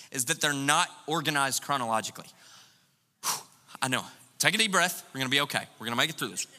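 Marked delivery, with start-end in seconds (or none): 3.2-6.5 mock soothing. Mock comfort for OCD people.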